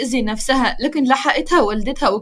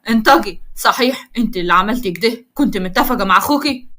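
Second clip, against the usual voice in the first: angry demand; 2 semitones lower than usual. Acted. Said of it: "يمسكها بقوة".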